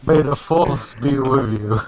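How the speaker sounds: slow glitchy robotic voice. Real, not acted. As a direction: drag it out like a broken robot. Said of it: "That sounds really interesting with your robot voice".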